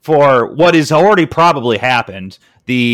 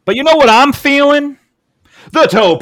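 excited; 12 semitones higher than usual. Real, not acted. Segment intro, hyped up.

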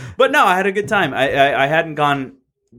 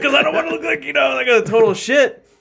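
laughing; 13 semitones higher than usual. Real, not acted. Laughing while telling.

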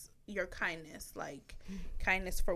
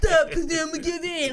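higher, louder, half laugh half whine; laughing plea; 6 semitones higher, 6 dB louder than usual. Retold or imitated. Partner about to give in, laughing whine. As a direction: beg her to stop through laughter. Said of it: "He's like".

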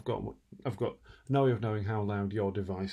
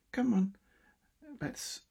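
exasperated; 14 semitones higher than usual. Real, not acted. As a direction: blurt it out in frustration. Frustrated at broken audio.

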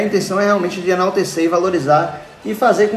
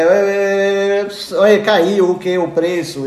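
street vendor shout; 5 semitones higher, 4 dB louder, slower than usual. Retold or imitated. Vendor hawking the price drop.

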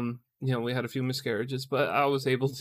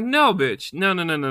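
high, loud burst of refusal; mock outraged refusal; 5 semitones higher, 6 dB louder than usual. Husband refusing wife's denial, loud mock outrage. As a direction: cut off the denial with rapid-fire noes.

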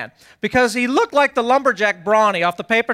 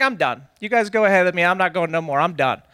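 low, dejected giving up; mock defeated; 4 semitones lower than usual. Worn-out dad quits on his family, mock defeated. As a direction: drop the voice and quit.

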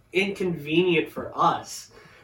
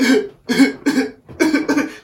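loud, high, stifled demo chuckle; short bursts of mimicked chuckling; imitated chuckle; 6 semitones higher, 6 dB louder than usual. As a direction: imitate yourself chuckling at him. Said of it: "I kinda chuckle whenever".

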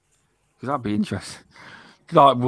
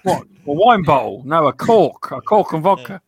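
put-on Scottish accent; 2 semitones higher, 5 dB louder than usual. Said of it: "that's what they sound like".

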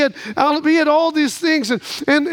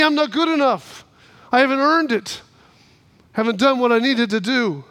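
self-doubting. Acted. Voices the doubting believer.

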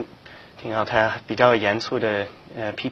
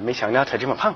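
laughing. Real, not acted. Joking about host's weight.

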